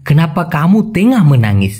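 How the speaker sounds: very slow, each Malay word spaced out; slow clear Malay. Shown as a demonstration. Teacher to Bengali learners, very slow careful Malay. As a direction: spell the phrase out by ear for learners. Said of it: "বলতে হবে".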